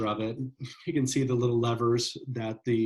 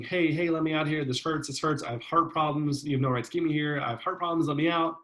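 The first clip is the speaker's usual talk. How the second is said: higher, fast, urgent begging, a touch theatrical; mock panicked pleading; 4 semitones higher, faster than usual. Learner screaming to be let out before going silent, mock panic. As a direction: imitate a frightened man begging to stop. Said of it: "this person who's just screaming".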